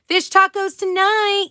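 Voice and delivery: high, loud and slow; excited read-out. Real, not acted. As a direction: savour the words with glee. Reading a viewer's comment excitedly.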